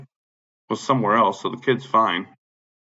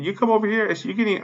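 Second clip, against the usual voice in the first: retold angry warning; 10 semitones higher, faster than usual. Retelling own angry warning.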